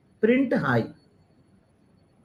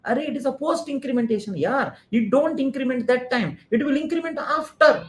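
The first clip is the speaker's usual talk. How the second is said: excited shouting; 6 semitones higher than usual. Retold or imitated. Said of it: "Immediately you started shouting".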